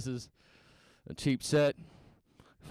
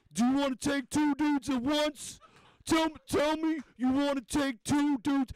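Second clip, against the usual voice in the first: mock girl at bar; 6 semitones higher, slower than usual. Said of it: "she'll be like".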